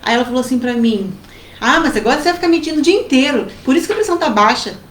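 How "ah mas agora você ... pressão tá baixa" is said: scolding mother. Retold or imitated. Acts out mother scolding her.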